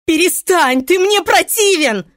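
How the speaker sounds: high, loud furious scream. A narrator's reading. Irene pulling free, screaming at Pablo. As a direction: scream at him to stop. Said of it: "закричала Ирен".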